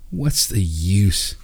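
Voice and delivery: slow, defeated sigh of a question; deflated and forlorn. A narrator's reading. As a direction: let the hope drain out of the words slowly. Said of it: "visibly deflated and forlorn".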